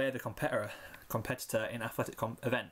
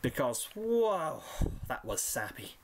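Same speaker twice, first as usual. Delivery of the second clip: laughing; much slower than usual. Acted. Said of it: "She laughed suddenly".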